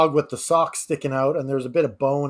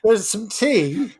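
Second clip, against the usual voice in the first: mishearing teeth as tea; 6 semitones higher, much slower than usual. Retold or imitated. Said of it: "I was like".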